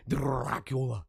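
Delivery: put-on Dracula accent with a rolled r. Host showing off his best accent, mock Dracula accent. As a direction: roll it out like a hammy Count Dracula. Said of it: "That was my best accent".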